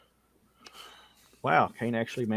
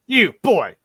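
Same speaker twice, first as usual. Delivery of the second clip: loud, higher-pitched summons; commanding knight; 8 semitones higher, 9 dB louder than usual. Acted. Knight hails the ranger after battle, loud commanding call. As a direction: bark an order at an underling. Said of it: "it's like".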